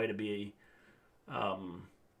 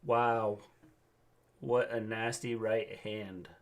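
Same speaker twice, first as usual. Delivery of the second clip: slow, flat indie commentator; deadpan play-by-play, no excitement; monotone commentator voice; slower than usual. Acted. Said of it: "monotone voices".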